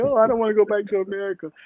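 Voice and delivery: high, tearful sobbing cry. Retelling crying at the airport, not wanting to leave: imitating own past crying. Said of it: "literally crying".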